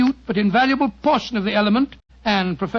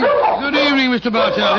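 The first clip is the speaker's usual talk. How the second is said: hearty call; 3 semitones higher, 5 dB louder than usual. Acted. Watson greets visitor over barking dogs.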